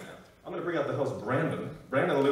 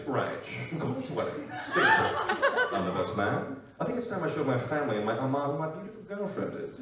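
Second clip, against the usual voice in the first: lightly voiced leading-man impression; short separate phrases, then a fuller line; Henry Golding. Film suitor announcing plans to introduce girlfriend, lightly put-on voice. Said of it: "Henry Golding and Crazy Rich Asians".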